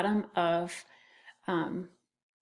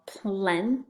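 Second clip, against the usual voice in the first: "plenty" slowly, plen, pause, tee; split into syllables. Shown as a demonstration. Teacher showing the syllables, "plenty" slowly broken in two. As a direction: stretch "plenty" into two separate beats. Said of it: "First syllable".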